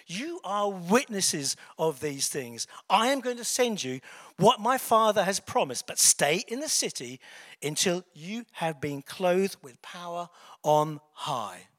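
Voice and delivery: loud, deliberate Bible reading; scripture reading. Acted. Reading Jesus's words to the congregation, loud and deliberate. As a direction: read scripture out firmly, with weighted words.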